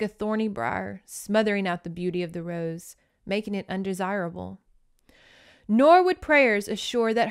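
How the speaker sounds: measured, literary read-aloud; audiobook-style narration, phrases falling away at the ends; book narration. A narrator's reading. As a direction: read the passage with sombre storybook weight.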